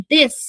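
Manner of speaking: দেস with silent u; clipped u. Shown as a demonstration. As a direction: say দেস not দেসু. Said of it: "উচ্চারণ হবে শুধু দেস".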